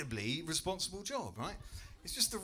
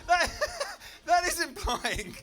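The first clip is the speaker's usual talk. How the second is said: rising outrage; 8 semitones higher, 8 dB louder than usual. Real, not acted. Comic's rising outraged rant.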